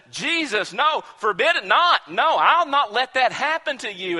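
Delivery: loud, high-pitched protest; pleading protest. Retold or imitated. Peter pulling Jesus aside, loud and protesting. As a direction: refuse it outright, half laughing.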